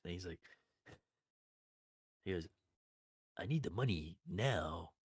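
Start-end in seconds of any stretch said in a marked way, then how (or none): 3.4-4.9 lightly put-on mobster accent; slow, measured demand for payment; Fat Tony. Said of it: "Fat Tony's like".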